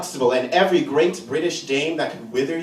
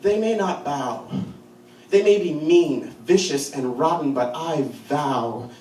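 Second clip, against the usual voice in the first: solemn vow; 3 semitones lower than usual. Acted. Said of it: "five-year-old me with ancient eyes of fire".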